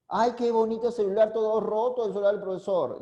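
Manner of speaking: a sighing "Ay", then gushing over the phone; gushing admiration. Shown as a demonstration. Teacher in class jokes about his broken phone: mock gushing. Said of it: "¿eso qué actitud es?".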